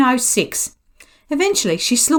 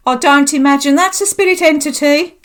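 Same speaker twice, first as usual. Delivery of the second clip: raised voice, a little higher; loud pointed remark; 4 semitones higher, 4 dB louder than usual. Retold or imitated. Psychic rebuking Greg's creeping hand, loud remark. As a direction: announce it loudly over the moment. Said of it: "I remarked loudly".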